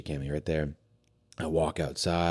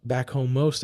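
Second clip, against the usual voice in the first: caring friend; 10 semitones higher, 7 dB louder than usual. Retold or imitated. Bonnie asks his favorite meal.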